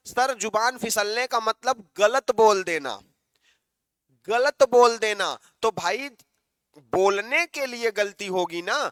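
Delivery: usual speaking voice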